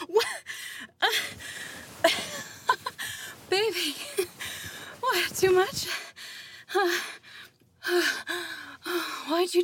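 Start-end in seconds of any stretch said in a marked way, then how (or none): 1.1-3.4 laugh. Real, not acted. Laughs after partner reacts.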